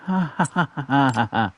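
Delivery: dry mock ha ha; sarcastic laugh. Real, not acted. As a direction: laugh bitterly at your own luck. Mocking laugh after missing.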